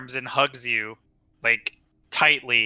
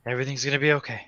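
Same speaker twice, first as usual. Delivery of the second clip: traumatized soldier repeating; 5 dB quieter, much faster than usual. Acted. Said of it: "he just keeps repeating it".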